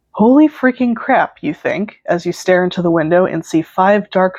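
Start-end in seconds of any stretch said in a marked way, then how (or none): 0.1-1.4 shocked. Acted. Shocked inner thought.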